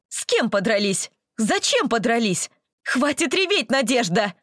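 high, stern teacher scolding; strict kindergarten teacher voice. Acted. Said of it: "очень строгим голосом воспитательницы".

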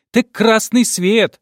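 put-on slow, high child objecting; reasoning girl. A narrator's reading. Girl reasoning with grandmother at the red light, slow and high. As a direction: point it out like a sensible kid. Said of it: "резонно возразила девочка".

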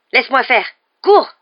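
high, forceful yell to run; urgent shout. Acted. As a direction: shout a desperate order. Sirius shouts as werewolf transforms.

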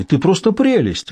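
high, drawn-out gushing; delighted admiration. A narrator's reading. Julian gushes over Mary Margaret, delighted admiration. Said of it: "восхитился Джулиан".

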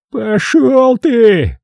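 high, slow yell of pain; roaring. A narrator's reading. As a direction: bellow it out in agony. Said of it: "взревел он". (смотритель ревёт от боли)

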